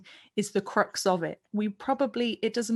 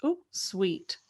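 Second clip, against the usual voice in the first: sweet; 3 dB quieter than usual. Shown as a demonstration. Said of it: "So use the".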